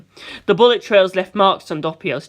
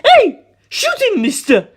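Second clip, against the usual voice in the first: high, loud yelling plea; 6 dB louder, slower than usual. Acted. Doppio yelling at Mister to shoot George. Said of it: "Doppio yelled".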